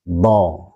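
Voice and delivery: "Do" pronounced thick and weighty; heavy dhad. Shown as a demonstration. Teacher showing how heavy the letter is, weighty "Do". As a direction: weigh down the sound of "Do". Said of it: "pengucapannya itu berat".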